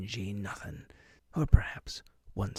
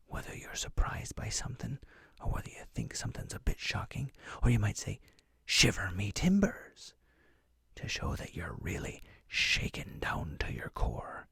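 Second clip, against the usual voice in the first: whispering pirate; 3 semitones higher than usual. Acted. Whispered pirate host throughout.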